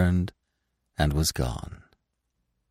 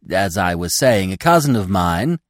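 chattering squirrel; 3 semitones higher, 5 dB louder than usual. Acted. Squirrel tries again.

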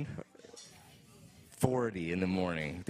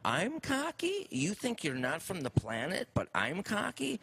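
indignant retort; 12 semitones higher than usual. Retold or imitated. Bartender firing back at Drew, incredulous. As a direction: throw her words back in disbelief.

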